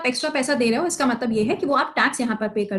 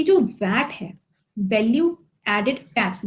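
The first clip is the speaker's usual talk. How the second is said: slow deliberate; slower than usual. Shown as a demonstration. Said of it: "ध्यान से सुनना".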